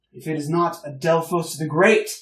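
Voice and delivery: put-on loud, jovial old officer hailing a hero; hearty greeting. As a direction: boom it out like an old war buddy. Old gentleman hails Adelphos.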